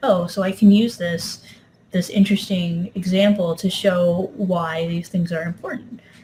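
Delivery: ordinary delivery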